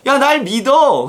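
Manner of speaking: punchy retold appeal, drawn out; emphatic urging. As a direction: call on them to trust. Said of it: "그러는 거예요".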